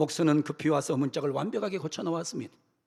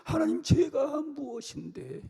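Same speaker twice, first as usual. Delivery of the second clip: soft, slow, wondering plea; humble prayer; 5 semitones higher, 4 dB quieter, slower than usual. Acted. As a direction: murmur it in humility. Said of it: "뭐라고 하는 줄 알아요".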